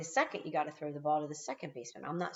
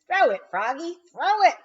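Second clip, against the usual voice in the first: higher, louder building scream; 11 semitones higher, 10 dB louder than usual. A narrator's reading. Teammate screaming at Froggy to throw the ball. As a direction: scream it as he hesitates. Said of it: "screamed the giant".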